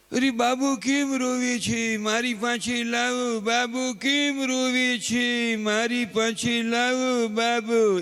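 high, slow doting coo; a doting mother rushing to her crying baby; fussing mother. Retold or imitated. Mother rushing to the crying baby, high slow coo. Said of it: "જનેતા દોટ કાઢે".

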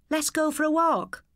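put-on light girl voice suggesting a walk; girl's voice. A narrator's reading. Sister to brother at the corner, light girl voice.

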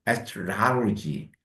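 astrology stretched very slowly; very slow demo. Shown as a demonstration. Teacher modeling astrology slowly. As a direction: draw out astrology syllable by syllable. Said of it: "라, 라".

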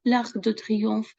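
slow, careful French L'Arc de Triomphe; teacher modelling French; French pronunciation. Shown as a demonstration. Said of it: "Це Тріумфальна арка".

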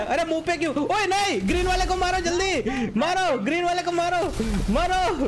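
high, frantic gamer commands; urgent calling out. Real, not acted. Urgent commands during game fight.

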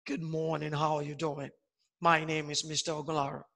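teacher imitating a man's deep voice. Shown as a demonstration. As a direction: put on a deep manly voice. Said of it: "men are known to talk like a man".

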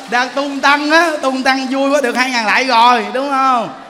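gleeful teasing. Shown as a demonstration. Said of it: "preacher illustrates glee".

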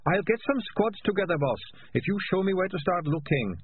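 timid high squeaky voice; eager but meek underling; meek high rat. Acted. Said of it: "said Sardines meekly".

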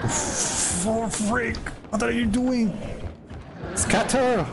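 very high-pitched alarmed yelp; panicked cry. Real, not acted. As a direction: squeal it in a game panic. Panicking at the game's killer.

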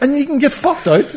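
excited laughing talk. Real, not acted. Mates swapping college tales, high excited giggling talk. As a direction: talk through giggles, keyed up. Both laughing over story.

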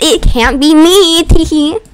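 slow, put-on coy innocence; coy act. Murder suspect feigning innocence in the game, coyly. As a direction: draw it out, then add a little teehee. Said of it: "Okay, I'll stop talking like that".

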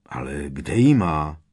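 sudden eager outburst; blurted question. A narrator's reading. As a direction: blurt it out at once. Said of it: "vyhrkl okamžitě Ron".

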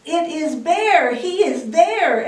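high, excited bird call; lightly squawked. A narrator's reading. Birds spot Bear from the sky, lightly squawking high. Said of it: "all squawked from the sky".

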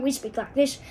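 put-on American Western accent; a slightly brisker cowboy-country Western accent. Shown as a demonstration. Comparing Western with Southern, Western accent. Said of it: "in the Western".

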